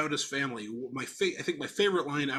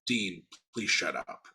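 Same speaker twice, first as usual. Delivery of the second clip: imitating Nana Connie; 7 semitones lower, 4 dB quieter, slower than usual. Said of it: "The best line reading Isabella Rossellini had".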